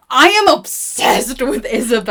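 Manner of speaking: loud, slow gush of delight; real fan excitement. Real, not acted. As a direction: rave about a favourite heroine. Gushing about the character.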